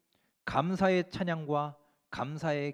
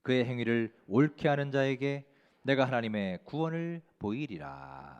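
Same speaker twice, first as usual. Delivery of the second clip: scripture reading aloud. Real, not acted. Preacher leads the congregation in reading a Psalm, measured recitation. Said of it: "화면 보시고 함께 읽겠습니다".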